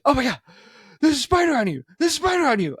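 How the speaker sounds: high-pitched mock panic; imitated freak-out. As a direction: act out someone panicking at a spider. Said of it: "loses her shit".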